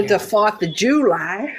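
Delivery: a shaky stab at an American accent; attempted American accent. Shown as a demonstration. Australian guest channels inner American on request, attempted American accent. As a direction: try American the way your dad says it. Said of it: "in your best American accent".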